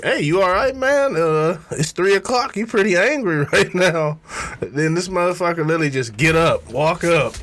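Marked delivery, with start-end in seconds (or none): 0.0-4.2 higher, playful teasing; teasing coworker. Retold or imitated. Teasing the angry coworker at his desk, higher and playful. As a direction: tease him lightly, pitched up. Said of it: "I'm like".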